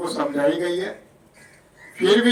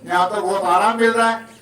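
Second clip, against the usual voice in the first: mock listener, laughing; 3 semitones higher than usual. Preacher teasing the congregation, laughing. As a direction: play the reluctant pilgrim with a laugh. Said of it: "अब आप कहोगे".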